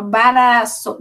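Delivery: BARAÇO slow, b and r pulled apart by a vowel; slowed-down blend. Shown as a demonstration. Teacher showing pupils the R, slowly separated. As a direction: ease slowly from b through r in baraço. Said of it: "você vai mostrando".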